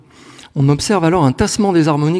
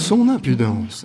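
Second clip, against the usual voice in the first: déclamation parlée; 4 semitones lower, slower than usual. Shown as a demonstration. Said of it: "Ça n'a plus rien à voir avec la mélodie".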